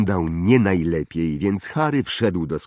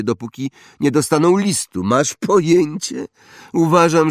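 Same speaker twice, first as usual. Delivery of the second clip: high, loud bragging schoolboy; spoiled boasting boy; 6 semitones higher, 5 dB louder than usual. Acted. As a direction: show off like a rich brat. Draco snobbish speech. (chłopiec przechwala się, wysoko i głośno)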